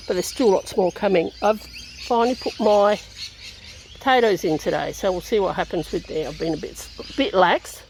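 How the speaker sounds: blocked-nose nasal sound. Real, not acted. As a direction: speak through a stuffy sinus. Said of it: "if I sound nasally today".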